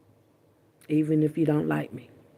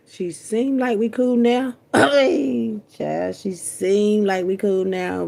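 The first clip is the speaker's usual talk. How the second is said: high, slow and louder through laughter; laughing; 5 semitones higher, 4 dB louder, slower than usual. Real, not acted. Laughing to viewers about her granny.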